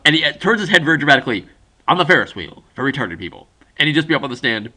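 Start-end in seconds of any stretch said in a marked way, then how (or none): 1.9-3.5 mock Southern lawyer finishing his question; lightly hammed Southern courtroom voice; deep Southern lawyer. Friend playing a lawyer cross-examining on the stand, deep Southern. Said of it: "imagine a Southern lawyer, very very deeply Southern".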